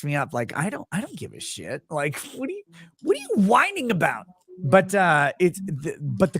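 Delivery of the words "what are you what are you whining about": tag. Retold or imitated. Mocking an imagined complainer.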